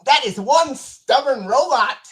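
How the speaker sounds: robot voice. Acted. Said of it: "here's one from an earlier season".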